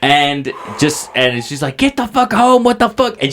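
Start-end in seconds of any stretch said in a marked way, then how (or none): 1.8-3.2 higher-pitched retold scolding; mock yelling. Sister ordering dad home, mock yell. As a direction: imitate a scolding daughter without full volume. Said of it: "she's yelling at my dad".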